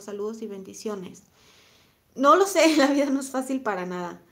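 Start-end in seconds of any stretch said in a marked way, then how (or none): 2.1-4.2 a burst of laughter, then the words still laughing; rueful laugh through the words. Real, not acted. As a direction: laugh it off, loud and high. Laughs at a viewer's comment.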